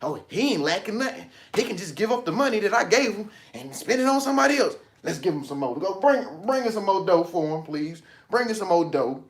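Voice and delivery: a hint of a pleased universe; universe talking. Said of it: "that's what the universe is gonna treat you like".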